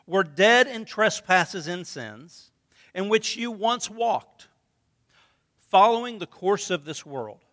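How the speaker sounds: slow, measured Bible reading; scripture reading. Acted. Pastor reads Ephesians to the congregation, slow and measured. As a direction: read the verses with weight.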